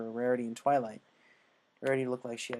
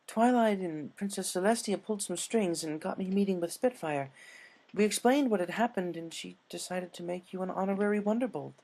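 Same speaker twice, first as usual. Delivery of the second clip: high, proud lady voice; Rarity voice; 7 semitones higher than usual. Acted. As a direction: present the news in a high lady voice. Rarity announces the gift.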